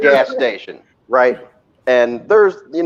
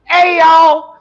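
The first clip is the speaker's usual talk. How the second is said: mock call-out, pitched up and laughing through it; 11 semitones higher, much slower than usual. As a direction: announce it to everyone in the queue. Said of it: "He's like".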